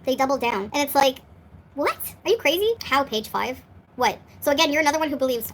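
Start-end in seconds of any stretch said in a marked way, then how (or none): 1.7-2.7 are you crazy, half laughing at it; incredulous. Real, not acted. To the bullies, a high incredulous jab.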